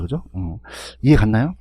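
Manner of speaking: usual speaking voice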